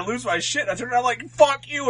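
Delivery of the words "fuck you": retold angry swearing. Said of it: "flipping off and swearing at".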